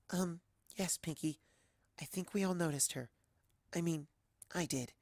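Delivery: very soft, hesitant murmur; shy little voice with halting pauses; timid Fluttershy voice. Acted. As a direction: answer meekly, barely speaking up. Timid Fluttershy answers Pinky.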